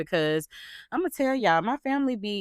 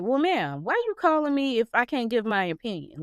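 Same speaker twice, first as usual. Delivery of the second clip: higher-pitched sassy challenge; mock exasperated; 5 semitones higher than usual. Mom to daughter who won't let her speak, mock exasperated. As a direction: question her with playful indignation. Acts out retort to talkative daughter.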